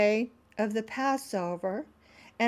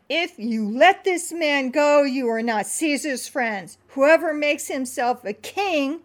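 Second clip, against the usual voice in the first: raised, slow warning; crying out; 5 semitones higher, 4 dB louder than usual. Acted. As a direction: call it out as a threat. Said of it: "the Jews cried out".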